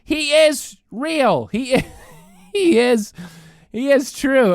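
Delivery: mock kid insisting, half crying; a lightly voiced upset child; whiny kid. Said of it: "They say".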